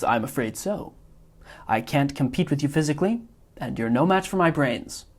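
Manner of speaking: a hint of a fussy, self-satisfied villain; Wallace Shawn's Vizzini. Teacher reading Vizzini's lines to the class, mild smug imitation. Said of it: "mimicking Wallace Shawn's inflection".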